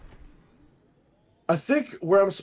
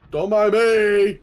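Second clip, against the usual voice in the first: slow, loud nervous appeal; nervous plea; 4 dB louder, much slower than usual. Real, not acted. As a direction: beg the monster to ignore you. Sneaking past the monster.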